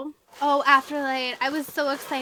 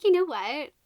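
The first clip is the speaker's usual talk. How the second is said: a touch livelier, raised question; lightly voiced heroine; 3 semitones higher, 4 dB louder than usual. Runaway girl to stranger on her porch, lightly voiced. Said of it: "she's like".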